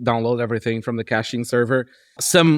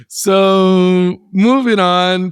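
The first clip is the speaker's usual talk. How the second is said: laughing; 5 semitones higher, 5 dB louder, much slower than usual. Real, not acted. Laughing after the banter.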